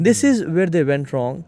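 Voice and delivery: each word of the English line dragged out slowly; slow down to nail the point; slow emphatic verdict. Real, not acted. Guest tells the host where elders failed, slow and firm. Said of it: "slow emphatic English line".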